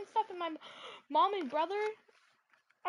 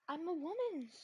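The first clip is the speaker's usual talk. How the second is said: ordinary talk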